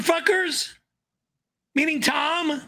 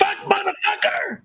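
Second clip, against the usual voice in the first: shrill screaming rant, much higher; swearing tirade; 8 semitones higher than usual. Acted. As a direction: scream the threats in a high, furious voice. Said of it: "you're screaming like a little girl".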